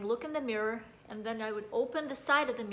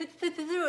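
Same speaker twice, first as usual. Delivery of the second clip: high, quick "tfu tfu tfu"; mock-spit to ward off a jinx; repeated little spitting noises; imitated superstitious spitting; 7 semitones higher than usual.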